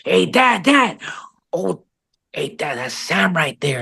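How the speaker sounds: high-pitched mock child calling out; excited kid. Son spots an actor and calls to his dad, excited kid. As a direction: imitate an eager kid pestering dad.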